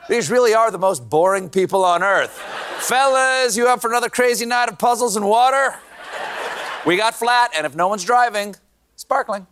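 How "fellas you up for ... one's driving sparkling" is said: mock party invite. Mocking the super pac staff.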